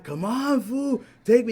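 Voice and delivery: high, loud cracking plea; imitating a yell. Imitating friend yelling to be driven home, high. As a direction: yell it like you're desperate. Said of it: "he started yelling like that".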